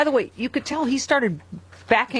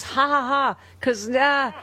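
mock laugh; 3 semitones higher, slower than usual. Sarcastic fake laugh at a joke.

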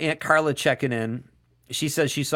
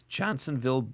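voice crack; 5 dB quieter than usual. Real, not acted. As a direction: voice cracks on "Johnsonville" mid-word. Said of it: "you hear my voice crack there".

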